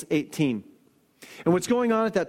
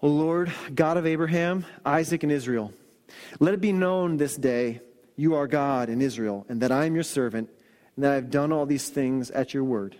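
humble plea; 3 semitones lower than usual. Retold or imitated. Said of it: "You can just hear just the plea".

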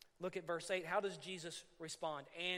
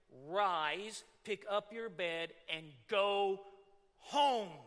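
commanding; 5 dB louder, much slower than usual. Acted. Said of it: "it's a command".

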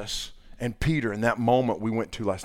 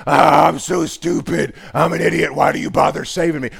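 mock self-pity; 5 semitones higher, 7 dB louder than usual. Believer moaning to God, hammed-up self-pitying whine. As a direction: whine like a sinner beating himself up. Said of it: "You're like".

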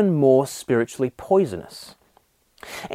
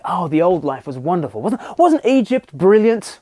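mock nostalgia. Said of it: "To say things like".

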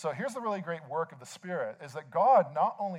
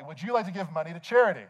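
mildly raised imitated cashier question; loud cashier; 2 semitones higher, 4 dB louder than usual. Cashier asking preacher for money, mildly loud. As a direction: ask it a touch publicly. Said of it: "the cashier asked me very loudly".

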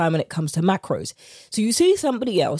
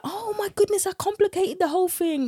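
mock realisation; 11 semitones higher than usual. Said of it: "And you're like".

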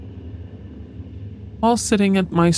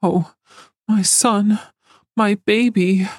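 high, trembling plea; shaky voice; 5 semitones higher, slower than usual. Acted. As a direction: voice near breaking with grief. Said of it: "my mother's shaky voice".

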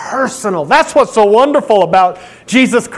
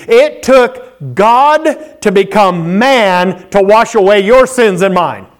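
forceful preaching; 3 semitones higher than usual. Acted. Preacher driving home his point to the church, forceful. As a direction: preach it out to the congregation.

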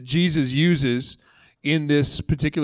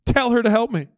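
high complaining plea, stretched at the start; whiny Martha; 3 semitones higher, 3 dB louder than usual. Retold or imitated. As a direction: play Martha begging Jesus for help. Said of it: "she said".

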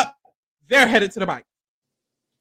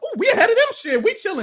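smug imitation; 10 semitones higher than usual. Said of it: "they're like".

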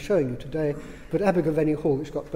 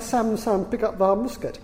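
put-on raised, playful Yorkshire accent; comic monologue in Yorkshire tones; 4 semitones higher, 3 dB louder than usual. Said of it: "in a Yorkshire accent".

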